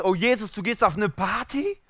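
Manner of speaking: high, loud judgemental scolding; mock scandalised. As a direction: imitate appalled moralisers, voice pushed up high. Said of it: "wurde von denen diskriminiert. Die haben gesagt". (gespielt empörte, hohe Moralapostel-Stimme)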